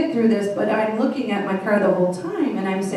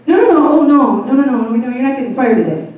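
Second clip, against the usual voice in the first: flustered HR guy; 5 dB louder, faster than usual. Retold or imitated. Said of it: "the H R guy goes".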